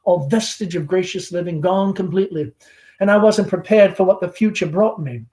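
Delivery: lightly voiced chatty Southern belle mother; Southern mother hostess. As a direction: gush over the guest like a fading belle. Amanda chatting with the caller.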